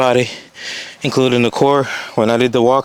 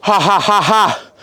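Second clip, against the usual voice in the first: laughing; 5 semitones higher than usual. Real, not acted. Laughs at his exhaustion.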